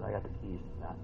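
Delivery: Jesus voiced.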